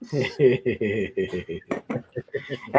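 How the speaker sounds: soft, low run of chuckles. Real, not acted. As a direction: chuckle quietly to yourself. Laughing after teasing about Angel.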